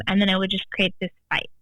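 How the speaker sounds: ordinary delivery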